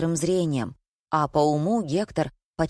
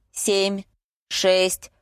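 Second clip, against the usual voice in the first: ровный отсчёт автомата с паузами; считай мерно, как машина; мерный счёт Лауры; 3 semitones higher than usual. A narrator's reading. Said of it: "мерно считала Лаура". (размеренный механический счёт)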